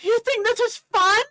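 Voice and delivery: high, loud, outraged question; furious challenge. Acted. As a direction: throw the question at the fans. Reese confronts the fans.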